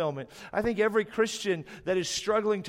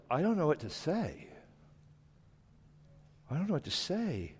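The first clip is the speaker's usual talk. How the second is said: softer, flat mock-awkward mumble; bored at a loss; 3 semitones lower, 6 dB quieter than usual. Worshipper stuck before God, quiet mock awkwardness. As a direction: shrug out the words with nothing to say. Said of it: "We'll go".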